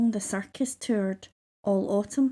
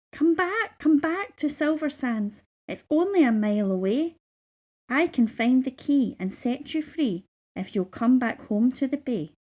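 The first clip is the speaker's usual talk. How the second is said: a higher, eager seagull; lightly voiced seagull; 3 semitones higher than usual. A narrator's reading. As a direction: coax her home urgently. Seagull speaks to mermaid.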